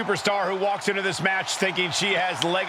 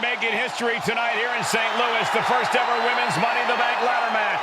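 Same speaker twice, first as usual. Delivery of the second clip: higher-pitched, projected opening call; big-event commentary; 4 semitones higher than usual. Real, not acted. Commentator welcoming viewers to a historic match, big-event call. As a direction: announce a historic night over the crowd.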